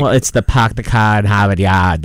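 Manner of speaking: put-on hammy Hollywood Boston accent; mock Boston accent, dropped R's. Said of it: "it always ends up being a little like".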